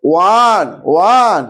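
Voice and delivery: ওয়ান said as "wan", with a clear w start; pronunciation demo. Shown as a demonstration. Teacher showing students the sound of ওয়ান, a firm "wan". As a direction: model ওয়ান slowly and firmly as "wan". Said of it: "আর এখানে দেখো".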